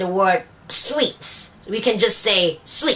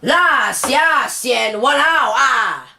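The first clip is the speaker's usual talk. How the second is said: Singlish particles, slower, stressed walao; Singlish accent; much slower than usual. Shown as a demonstration. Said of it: "We say it as".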